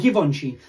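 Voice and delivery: "Givenchy" with a hard g, as give-on-chee; variant of Givenchy. Shown as a demonstration. Listing endless variants for the co-host, Givenchy with hard g. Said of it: "it can go on forever".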